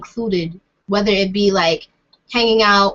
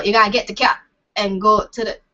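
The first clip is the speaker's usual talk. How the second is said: hesitant attempt at a Bajan accent. Shown as a demonstration. Trying out accents before giving up, tentative Bajan accent. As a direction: try a little Bajan accent. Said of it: "a Bajan accent a little bit".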